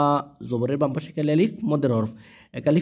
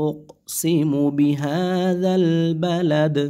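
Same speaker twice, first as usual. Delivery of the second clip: slow drawn-out melodic chant; Quran recitation; 2 semitones higher, much slower than usual. Shown as a demonstration. Teacher models the full verse for students, slow chant. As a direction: stretch the verse out as tajweed recitation.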